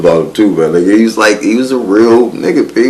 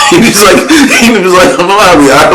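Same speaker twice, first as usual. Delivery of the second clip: laughing through the words, voice up high; can't stop laughing while retelling; 10 semitones higher, 4 dB louder than usual. Real, not acted.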